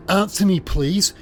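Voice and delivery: high, pressing plea; insistent demand. Retold or imitated. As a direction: demand an answer, pitch way up. Sarah demands a reply.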